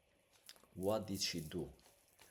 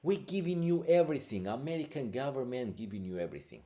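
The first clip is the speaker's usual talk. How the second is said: frustrated outburst; 4 semitones higher, 7 dB louder, faster than usual. Real, not acted. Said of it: "getting frustrated".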